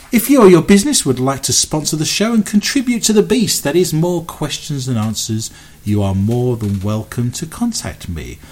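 smooth station announcement read; radio announcer. Acted.

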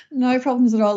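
said through a light laugh. Real, not acted. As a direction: answer while still chuckling. Answering while still laughing.

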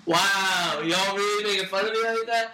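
drawn-out mock-hurt wows; imitating offended listener. Co-host voicing roasted friend hearing the show, mock offended. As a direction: stretch it out in mock disbelief. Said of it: "gonna listen to this and go".

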